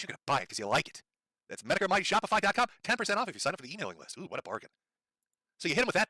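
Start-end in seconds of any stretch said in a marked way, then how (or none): 1.5-4.7 mock merch pitch. Shown as a demonstration. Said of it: "example of how this works".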